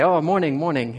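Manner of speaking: lifted, sing-song cheery hello; friendly naive greeting. Retold or imitated. Small-town kid greeting two strangers, innocently friendly. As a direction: greet them thinking the best of them. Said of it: "I'm thinking the best of people".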